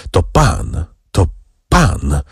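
halting, stammered words with a pause; frightened stammer. A narrator's reading. Frightened youth recognises his visitor, halting stammer. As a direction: stammer it out, mildly afraid. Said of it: "wyjąkał młodzieniec, rozglądając się wokół z przestrachem".

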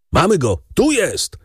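high-pitched excited call, moderate volume; triumphant shout. A narrator's reading. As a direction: call out that the quarry is found. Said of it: "krzyknął głos za drzwiami".

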